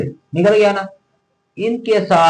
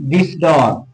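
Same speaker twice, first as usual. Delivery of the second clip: slow example. Shown as a demonstration. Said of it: "देखते हैं example से".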